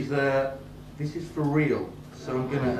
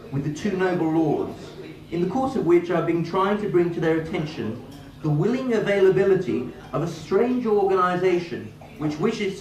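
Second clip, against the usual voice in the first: raised-pitch formal read of a Lords speech; reading a speech aloud; 4 semitones higher than usual. Acted. Reading a peer's speech to the audience in a formal voice. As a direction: read it like the parliamentary record, formally.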